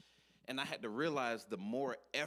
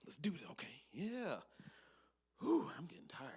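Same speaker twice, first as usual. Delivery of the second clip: sneaky whisper, higher pitched; 7 semitones higher than usual. Acted. Worker sneaking out of the office, whispering. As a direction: whisper like you're slipping out unnoticed.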